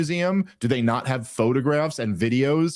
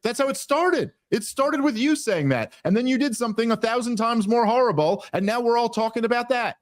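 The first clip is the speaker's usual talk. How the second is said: pitched way up, incredulous and exasperated; exasperated retort; 10 semitones higher than usual. Retold or imitated. Host mocking the pro-Israel side's complaint, exasperated and high-pitched. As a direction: fire it back high, in disbelief at the hypocrisy.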